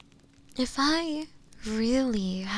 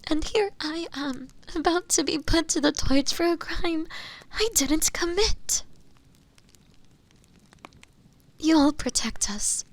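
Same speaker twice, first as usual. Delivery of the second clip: tearful, high-pitched frightened pleading; terribly afraid; 5 semitones higher, 4 dB louder than usual. Acted. Accused prisoner begs the inquisitor to save her, terribly afraid. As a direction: plead desperately, voice rising with fear and close to crying. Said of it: "I'm so terribly afraid".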